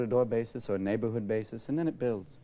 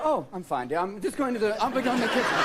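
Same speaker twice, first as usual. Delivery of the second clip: put-on blasé old lady; 8 semitones higher, 3 dB louder than usual. Blasé person during quake.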